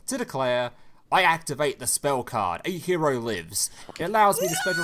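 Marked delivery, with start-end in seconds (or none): 1.1-4.8 dramatic anime hero declaration; anime protagonist voice. Retold or imitated. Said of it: "in what was clearly a very well-rehearsed anime protagonist voice".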